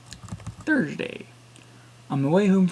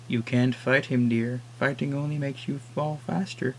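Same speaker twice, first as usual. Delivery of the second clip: put-on old woman; slower than usual. Old woman advises narrator.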